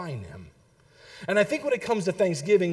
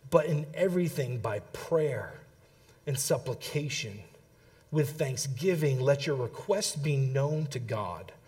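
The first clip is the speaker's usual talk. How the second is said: Scripture reading; 4 semitones lower than usual. Real, not acted. Preacher reading Philippians to congregation, measured Scripture reading. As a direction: read it out deliberately, pausing between phrases.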